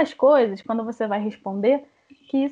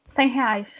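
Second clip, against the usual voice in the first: short, plain price quote; resposta seca. Shown as a demonstration. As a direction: answer curtly, with nothing extra. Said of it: "da forma como eu falo". (resposta curta e seca)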